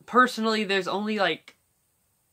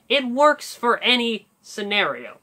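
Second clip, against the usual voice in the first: Shaggy voice; 4 semitones higher, 4 dB louder than usual. Shown as a demonstration. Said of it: "still in Shaggy voice".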